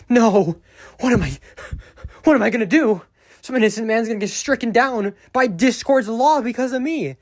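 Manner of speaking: high, loud hammed-up panic over a Discord report; mock panic. Mocking the scammer's overblown panic about reporting, hammed-up loud panic. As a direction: squeal it out like a fake freakout.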